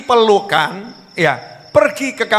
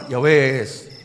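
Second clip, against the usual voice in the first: resigned calm husband; 6 semitones lower than usual. Acted. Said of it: "yang bener".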